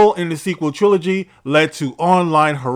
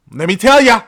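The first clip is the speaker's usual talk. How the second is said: mock quote; 6 semitones higher, 6 dB louder than usual. Acts out actor's quote.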